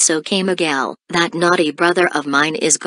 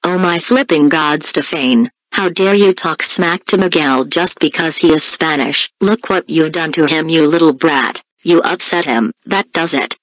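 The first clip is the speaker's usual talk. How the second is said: mildly raised, cross telling-off; firm, somewhat louder reprimand; angry scolding; 3 dB louder than usual. Acted. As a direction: scold a naughty little brother. Sister angrily scolds her brother.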